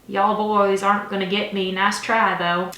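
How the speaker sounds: a light Southern drawl for the dad; mock Southern dad, laughing it off; Southern accent. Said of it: "I just assumed he has an accent".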